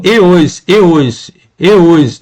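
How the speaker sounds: "e os" repeated on its own as a fused "ios"; "e os" shown as one little sound, repeated; sound pointed out. Shown as a demonstration. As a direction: isolate "e os", gliding the two vowels together. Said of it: "reparem que esse sonzinho".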